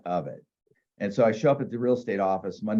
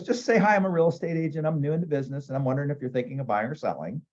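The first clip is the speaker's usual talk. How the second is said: higher, chirpy scripted sales pitch; mock phone script; 5 semitones higher, faster than usual. Secretary telling the new agent the call script, chirpy. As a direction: rattle off the cold-call script cheerfully.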